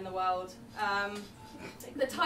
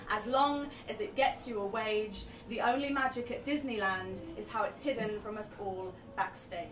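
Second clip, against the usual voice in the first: spoken word poem; 3 semitones higher than usual. Acted. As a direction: punch each line like slam poetry. Performs poem Staff Only.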